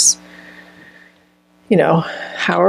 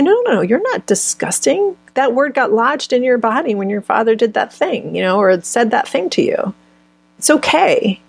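reassuring; 4 semitones higher than usual. Pretend. Soothing the inner child.

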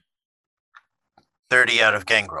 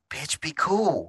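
mock warning; 7 semitones higher, 5 dB quieter, much slower than usual. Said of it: "he's gonna look at Lucy and be like".

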